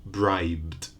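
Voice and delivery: bribed as one syllable ending in voiced bd; bribed, falling, no extra vowel. Shown as a demonstration. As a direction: run the b straight into d in bribed. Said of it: "In the past".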